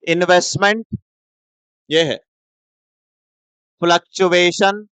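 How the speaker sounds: slow, word by word; teacher unpacking इन्वेस्टमेंट फ्लक्चुएशन slowly; slow term breakdown. Shown as a demonstration. Teacher breaking the term apart slowly for students. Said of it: "तो आओ मेरे साथ और सुनो।".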